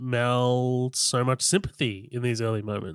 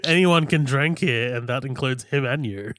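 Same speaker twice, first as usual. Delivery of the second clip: mock pirate barman. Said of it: "Redbeard the pirate stepping in and being like".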